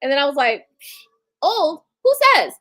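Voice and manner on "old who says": sharp disbelieving rise, much higher and louder; incredulous scoff. Retold or imitated. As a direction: scoff at the very idea of being old. Scoffing at idea of being old.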